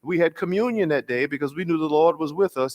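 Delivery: first take, said steadily; John Lewis telling the story, mildly high. Retold or imitated. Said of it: "my attempt to do his voice".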